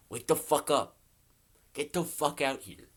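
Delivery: loud mock wake-up call from the driveway; yelling to wake him. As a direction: bang on the door and holler him awake. Banging on friend's door, yelling.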